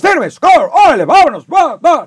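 loud, high barked army commands; drill sergeant shout. Retold or imitated. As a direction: bark orders at recruits like a sergeant. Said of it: "te gritan y te dicen".

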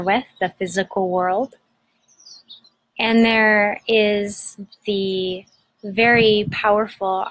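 unhurried meditation guide, long pauses between phrases; guided meditation. Acted. Host guiding listeners to breathe into their belly, guided meditation.

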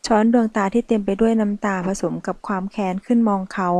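ordinary delivery

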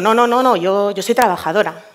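retold protest, loud on the opening nos; emphatic denial. Woman setting the man straight about being a worker, emphatic denial. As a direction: cut in firmly with rapid nos, then settle.

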